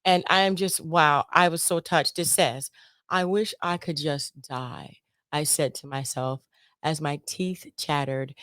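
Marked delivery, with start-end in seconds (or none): 3.1-5.0 soft quiet reading; reading aloud. Shown as a demonstration. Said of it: "read this blurb to you".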